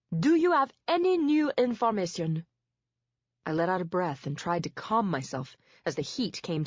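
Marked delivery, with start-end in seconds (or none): 0.1-2.4 impatient demand. A narrator's reading. Judge presses impatiently.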